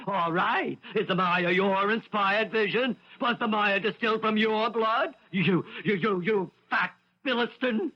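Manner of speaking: mocking imitation. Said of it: "you could say".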